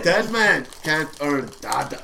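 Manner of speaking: slow, hammed-up Jamaican accent; imitated Jamaican accent. Echoing the movie line for laughs, imitated Jamaican accent. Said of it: "with a Jamaican accent".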